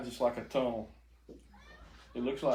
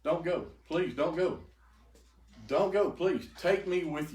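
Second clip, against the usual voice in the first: pleading; 5 semitones higher than usual. Retold or imitated. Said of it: "And I said".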